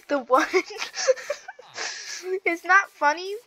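laughing while insisting; real giggles. Real, not acted. Player honoring turtle can't help it, giggly protest. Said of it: "I don't know why I'm laughing".

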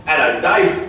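mock English accent on a phone greeting; a light English accent. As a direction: greet like a caller from England, lightly put on. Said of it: "that's my English accent".

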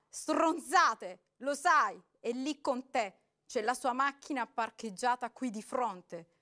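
loud furious accusation; man shouting, waving a baseball bat. A narrator's reading. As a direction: yell it while swinging the bat. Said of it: "gridò agitando nell'aria la mazza".

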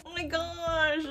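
high, drawn-out fangirl squeal; excited squeal. Real, not acted. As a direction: stretch the name out in high delight. Delighted at finding a favourite cosplay.

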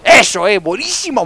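loud, happy whoop; excited cheer. Real, not acted. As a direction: cheer the hit. Celebra un buen disparo. (grito de celebración)

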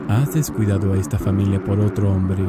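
lightly voiced stern parent, a little low; accusing parent. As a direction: scold a spouse with measured reproach. (voz de padre acusador, con reproche contenido)

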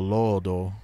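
"lodo" as loo-ong "loh-do"; long vowel. Shown as a demonstration. Explaining the vowel rule, elongated "lodo". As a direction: hold the first o of "lodo". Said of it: "if they make it long vowel".

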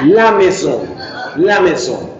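La maison ending in a nasal vowel, "la meh-zon"; nasal French N. Shown as a demonstration. Teacher modelling French for the class, La maison with nasal ending. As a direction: send the end of maison through the nose. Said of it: "una nariz".

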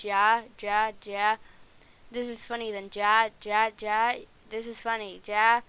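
loud ja ja ja laugh bursts; hammed-up gloating laugh; mock laughter. Character laughing at prank.

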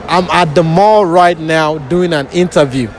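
slow African-accented line. Shown as a demonstration. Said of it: "Yeah, I'm African, so it's easier for me".

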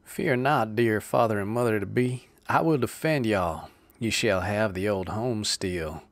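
loud, confident stage hero; heroic reassurance. Acted. Jack promises the Stubbses their home, loud heroic. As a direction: reassure the parents grandly. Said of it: "virile accents".

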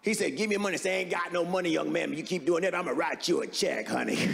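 lightly voiced old lady telling a robbery joke; granny deadpans a mugging joke; Moms Mabley impression. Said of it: "That was Moms Mabley".

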